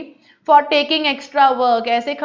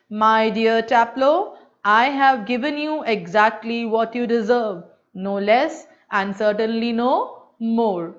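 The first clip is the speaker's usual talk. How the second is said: slow, lightly lowered throaty copy of the teacher; deep teacher imitation; 3 semitones lower, slower than usual. Student repeats the teacher's voice on request, slow and lightly deep. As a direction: repeat the master's words in a gentle deep voice. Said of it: "दोबारा वैसे ही बोल रहे हैं उसी आवाज में, deep में".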